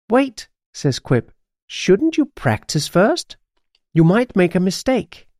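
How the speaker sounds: high-pitched magpie caution; worried caution. A narrator's reading. Pet magpie urging practice, high and cautioning. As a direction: pipe up to stop her.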